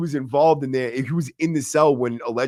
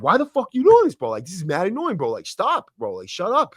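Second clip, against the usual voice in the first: exasperated, higher-pitched complaint; retold arguing; 6 semitones higher than usual. Inmate arguing with smoking buddy, exasperated. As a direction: argue back, fed up and heated. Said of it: "I'd start arguing with him".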